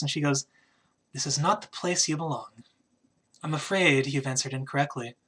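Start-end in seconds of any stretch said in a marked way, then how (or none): 1.1-5.2 lightly voiced woman, softer and a little lower; a hushed hint of an otherworldly voice; mysterious echoing woman. Game master voices a woman heard in a large chamber, lightly mysterious. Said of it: "her voice just kinda echoes along".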